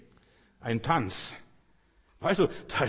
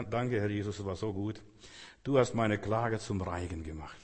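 low, hushed prayer of thanks; sit still and thank softly, voice dropped low; quiet thanks; 6 semitones lower, 6 dB quieter than usual. Acted. Preacher showing how to thank Jesus in stillness, hushed. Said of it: "ganz still sitzen und sagen".

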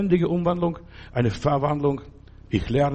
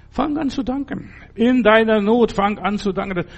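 fervent preaching; 6 semitones higher than usual. Real, not acted. Preacher urging the listeners to give thanks in need, rising fervour. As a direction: rouse the congregation.

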